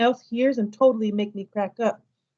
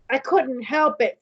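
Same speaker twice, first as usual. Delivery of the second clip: a touch of a whine, slowed; mild childish whine, drawn out; whining; 2 semitones higher than usual. Acted. Boy whines to his mom he couldn't help it. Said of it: "kind of whining".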